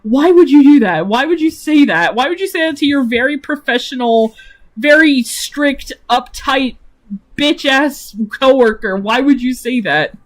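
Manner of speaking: mock-frustrated self-scolding. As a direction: berate yourself in mock despair. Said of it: "He's like".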